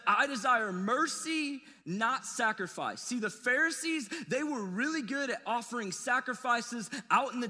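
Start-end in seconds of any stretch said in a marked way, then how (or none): 0.1-3.0 drawn-out weighty words; slow emphatic quote. Acted. Preacher quoting Jesus, slow and emphatic. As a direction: land each word slowly. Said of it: "He said".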